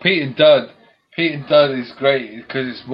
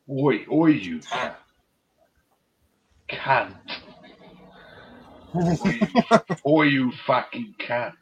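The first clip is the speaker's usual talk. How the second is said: vigorous insult; 4 semitones higher, slower than usual. Retold or imitated. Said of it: "He said it with some real vigor".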